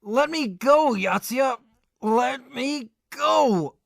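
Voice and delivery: straining yell to be let go; struggling shout. Acted. Godai yells at Yatsuya to let him go. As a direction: fight free, shouting.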